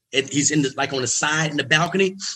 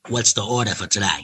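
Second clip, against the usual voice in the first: lower, calm and in charge; low cool Katt Williams voice; 5 semitones lower than usual. Retold or imitated. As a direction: ask like the man running the night. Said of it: "He was like".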